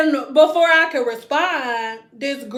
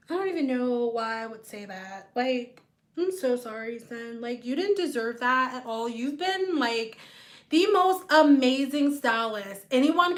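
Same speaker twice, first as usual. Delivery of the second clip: quiet, hushed, sheepish apology; soft apology; 6 dB quieter than usual. Retold or imitated. Client apologizing to the stylist, quietly embarrassed. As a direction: mumble a softer, embarrassed sorry.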